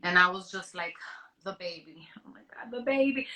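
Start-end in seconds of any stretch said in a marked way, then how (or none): 1.4-3.3 put-on a mother's fear for her unborn baby, rushed and rising; panicked about the baby. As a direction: blurt it out in sudden panic. Panic about the baby on hearing diagnosis.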